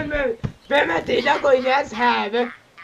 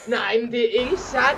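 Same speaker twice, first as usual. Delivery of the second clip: real outburst at the screen; shocked shout. Real, not acted. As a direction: shout it in disbelief. Shocked at the video they watch.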